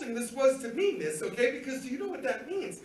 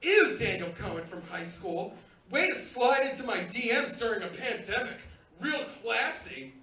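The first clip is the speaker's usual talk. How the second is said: imitating a disgusted wife, mildly; sarcastic disgust, slowing on "Real classy"; annoyed and disgusted. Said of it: "all annoyed and disgusted".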